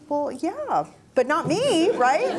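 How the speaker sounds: chuckling through the words; laughing. Real, not acted. Telling a mentor about shirking, with a laugh. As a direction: laugh it off, sheepish. Laughing at her own reluctance.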